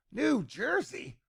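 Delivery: slow, high, soft amused echo of New Jersey; amused repeat. Retold or imitated. Repeats place name, amused.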